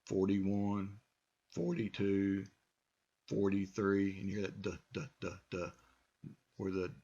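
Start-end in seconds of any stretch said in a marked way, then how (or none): 4.6-5.7 soft repeated "duh" for the flapped T; D sound. Shown as a demonstration. Teacher isolating the D sound for students. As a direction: tap out "duh, duh, duh". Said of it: "T has been replaced by the D".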